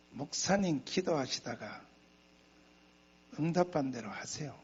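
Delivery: imitating church elders, mildly soft and low; measured, outwardly agreeable counsel, mimicked with pauses; feigned polite deference. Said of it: "말은 곧다이로 해놓고". (겉으로만 공손한 장로들 말투를 흉내 내며 차분하게)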